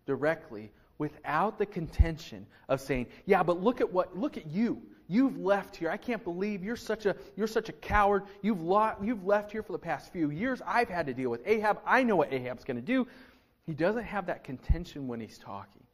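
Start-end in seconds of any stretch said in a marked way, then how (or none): 3.3-13.1 raised, scolding complaint; lightly hammed-up reproach; mock accusation. Obadiah accusing Elijah, raised and scolding. Imagined contentious reply to Elijah.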